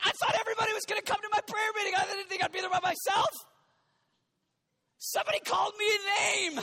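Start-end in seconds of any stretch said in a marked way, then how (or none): 0.1-3.3 whiny complaining. Retold or imitated. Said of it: "We're like".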